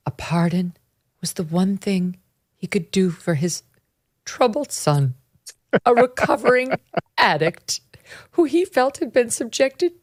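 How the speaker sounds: put-on old Hollywood newsreel voice, laughing through; mid-Atlantic accent. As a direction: read it like a fifties movie narrator. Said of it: "mid-Atlantic accent".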